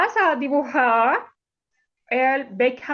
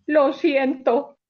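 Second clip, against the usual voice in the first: slow; 3 dB louder, slower than usual. Acted. Lion cannot say sorry.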